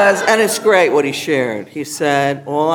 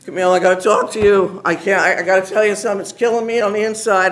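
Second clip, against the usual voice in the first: lightly voiced urgent Italian principal, louder; worked-up Italian principal; 4 semitones higher, 4 dB louder, faster than usual. Principal desperate to confess to a teacher, worked-up Italian urgency. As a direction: retell her pleading in a hurried, raised voice. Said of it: "she was so Italian. She was just like me".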